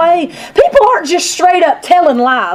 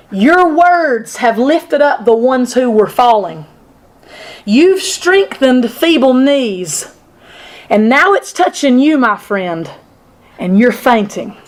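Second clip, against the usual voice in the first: lower, slow and gentle; sincere; 3 semitones lower, slower than usual. Retold or imitated. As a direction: speak it like a caring friend. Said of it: "That sounds better".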